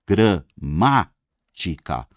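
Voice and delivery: "Gramática" slowly as gra-MÁ-ti-ca, MÁ punched; stressed antepenultimate syllable. Shown as a demonstration. Teacher shows Álvaro the strong syllable in Gramática, slowly split. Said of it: "antepenúltima sílaba".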